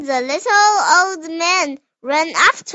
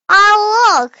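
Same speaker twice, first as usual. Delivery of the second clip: put-on old woman voice; 5 semitones higher, 7 dB louder than usual. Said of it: "said the little old man".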